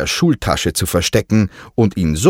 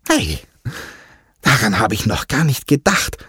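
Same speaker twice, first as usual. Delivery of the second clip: delighted; 5 semitones higher than usual. Acted. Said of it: "rief Diego erfreut".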